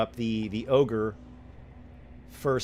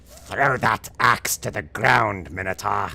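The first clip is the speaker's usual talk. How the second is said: hobgoblin voice; 6 dB louder than usual. Acted. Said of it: "One of the hobgoblins says".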